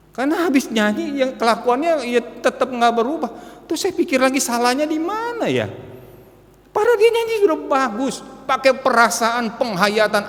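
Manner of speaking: rising indignant sermon; preaching at full force. Acted. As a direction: build the frustration for the church.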